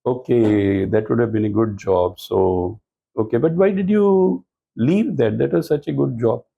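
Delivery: easy, friendly curiosity with no edge; friendly questioning. Shown as a demonstration. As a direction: ask kindly, showing appreciation for the job. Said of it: "instead of interrogative style".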